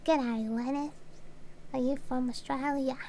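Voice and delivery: a light put-on Australian accent; Australian twang, barely there; mock Australian accent. Joking to a friend about a fake Australian accent, lightly done. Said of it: "Do you like my accent?".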